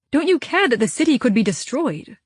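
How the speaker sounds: a mildly heated demand to the dwarf leader. Acted. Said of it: "I demanded".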